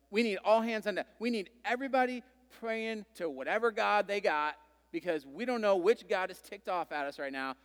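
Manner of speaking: mock frantic crew rallying everyone to pray; panicked sailors. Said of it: "they were like".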